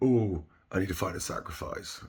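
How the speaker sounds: ordinary talk, nothing marked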